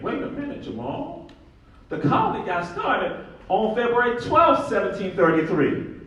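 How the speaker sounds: high, loud challenging interruption; mock objection. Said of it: "the folks from Georgia saying".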